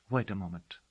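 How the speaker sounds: a soft, falling aside; a girl quietly pausing her talk. Acted. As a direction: say it under your breath, to herself. Girl pausing mid speech.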